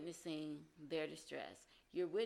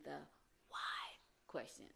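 whisper; 4 semitones lower, 6 dB quieter, slower than usual. Real, not acted. Advice giver whispering the warning to viewers. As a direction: drop to a whisper on the last words. Teaching aside on a key point.

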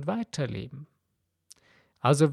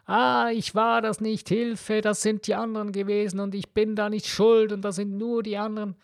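high, whining mock cry for help, blaming others; mock whiny wailing; 6 semitones higher than usual. The self-pitying person crying out that others are at fault, high mock whine. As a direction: wail like someone dodging the blame. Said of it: "zu plären oder zu schreien beginnen und sagen".

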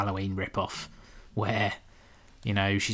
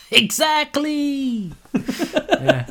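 high, loud, long-drawn shriek; mock hysterical cry; 5 dB louder, much slower than usual. Host agreeing with co-host's joke, long high mock shriek. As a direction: stretch it out in comic hysteria. Comic climax of panic riff.

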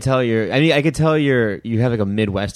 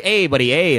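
higher-pitched mock Canadian; Canadian accent; 5 semitones higher than usual. Teasing his Canadian roommate's speech, mock Canadian accent. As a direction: imitate a Canadian roommate with raised "eh". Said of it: "his A's will go up".

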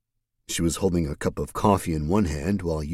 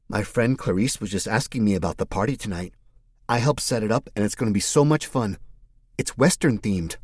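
put-on higher, chirpy excited girl; bubbly young woman; 4 semitones higher than usual. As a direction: gush about the party happily. Mercedes voice held.

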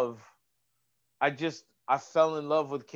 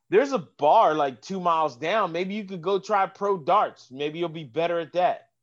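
sarcastic smart aleck; 3 dB louder than usual. Retold or imitated. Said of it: "being sarcastic and a smart aleck".

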